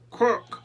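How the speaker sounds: "Quack!" said as "krook", high and loud; short, loud "Quack!" with an "oo" for the ah; "Quack!" honked high as a broken "kwook". Acted. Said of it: "Your quack has lost its ah".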